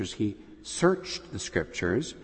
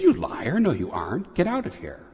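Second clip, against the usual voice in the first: higher, louder hammed-up scolding; retold doorkeeper calling him a liar, raised voice; mock angry rebuke; 7 semitones higher, 3 dB louder than usual. Friar at the door rejects Francis, mock angry and higher.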